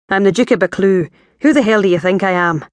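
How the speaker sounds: impatient Highland Scots voice with a Scandinavian tinge; Scottish-Scandinavian accent. Acted. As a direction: play him gruff-tongued, Scottish and a bit Nordic. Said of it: "He had a weird accent".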